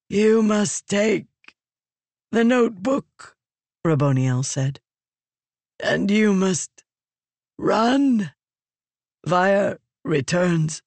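slow, high, strained dying voice; dying Fused. Acted. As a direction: urge her with failing breath.

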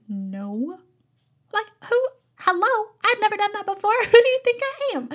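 high, incredulous mock outrage; incredulous disbelief. Vlogger retelling her shocked refusal to her boss, incredulous and high. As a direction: play up the shock of being asked.

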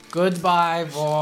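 a hint of a creepy chorus of guards; creepy little voice. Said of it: "in a creepy little voice".

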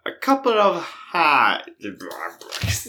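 slow, whispery mock French accent; Steve Martin. Answering in the airport scene, slow hammed-up French accent. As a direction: drag out the mangled French-accented words. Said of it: "Pink Panther with Steve Martin".

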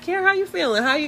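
high-pitched, gentle check-in; sweetly concerned, pitched well up. Retold or imitated. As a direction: imitate a caring boss checking on someone. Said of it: "They're sweet".

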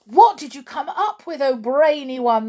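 high, loud impatient witches; impatient cry. A narrator's reading. Witches to their leader, impatient cry. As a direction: demand it now. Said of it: "they called out".

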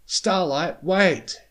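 high, loud yelp; urgent high-pitched call to stop; sudden yelp. A narrator's reading. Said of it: "Spike's voice yelped suddenly".

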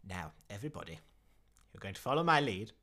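rally the troops with rising force; Raxor addressing troops. Acted. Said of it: "you hear him addressing the troops".

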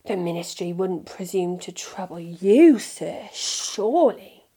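a hint of a fawning shopkeeper; lightly voiced shopkeeper Borgin. A narrator's reading.

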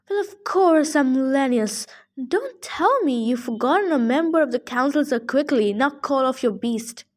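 put-on fussy old satyr voice, indignant; grumpy old satyr. Old satyr scolding Percy about the hellhound, indignant. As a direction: bluster like a cranky old goat-man.

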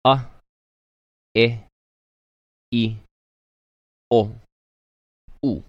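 each vowel "A, e, i, o, u" started with a glottal catch; sharp onset vowels. Shown as a demonstration. Teacher showing the class the okina's sharp start. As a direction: cut sharply into every vowel. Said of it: "an okina, right, which is gonna create a sharper sound".

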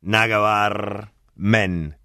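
"Nada que ver" lento, como "nacabarrr", más "men"; estirá "Nada que ver" y rematá con men; pronunciación parda con men. Shown as a demonstration. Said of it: "Men se dice always". ("Nada que ver, men" arrastrado)

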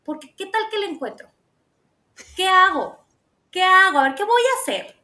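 a hammed-up panicked wife; mock panic. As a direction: act out spiralling worry, half joking. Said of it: "le dije".

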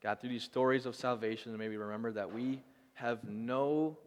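gentle, unhurried prayer voice; closing prayer. Acted. Pastor closing the sermon with a prayer, gentle and unhurried.

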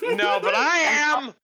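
laughing. Real, not acted. Laughing, eager reply.

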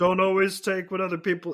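Kermit the Frog voice. Retold or imitated. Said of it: "I'm giving you a Kermit the Frog voice".

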